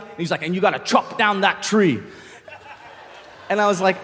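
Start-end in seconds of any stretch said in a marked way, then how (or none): 0.4-2.0 lightly voiced coach's put-on voice; mock boxing coach. Coach urging his boxer in the corner, lightly put-on voice. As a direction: deliver it as a coach's key instruction.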